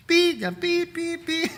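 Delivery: high beeping for swear words; censor bleep. Retold or imitated. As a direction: bleep out the curse. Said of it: "제가 대신 욕해드렸어요".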